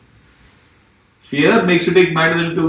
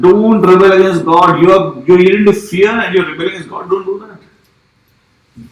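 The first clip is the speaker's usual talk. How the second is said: pleading; 4 dB louder, slower than usual. Acted. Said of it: "He's pleading with them".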